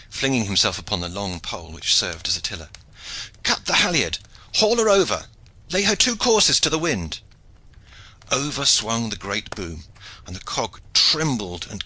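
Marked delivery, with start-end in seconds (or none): 3.4-7.2 high, urgent shouted commands; screamed orders. A narrator's reading. Shipmaster orders the crew away from rocks, shouting urgently. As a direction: call each order sharply over the sea. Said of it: "screamed Goodwin Hawtayne".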